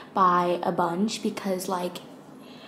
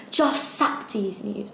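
slow second try, accidentally British; British accent; slower than usual. Retold or imitated. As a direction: imitate a quote slowly, slipping into a British accent. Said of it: "Why am I saying it in a British accent?".

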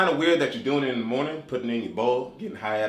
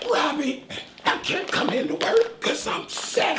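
high, slow, whispered sick voice; 13 semitones higher, slower than usual. Pretend. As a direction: fake being too ill for work. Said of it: "you should hear my sick voice".

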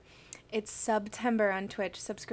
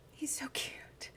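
soft whispered, higher coo; 3 semitones higher, 8 dB quieter than usual. Real, not acted. Owner whispering fondly about the dog behind her. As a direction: coo so the dog isn't startled.

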